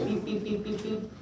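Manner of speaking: teacher modelling a bus horn; beep sound. Shown as a demonstration. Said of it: "Someone say".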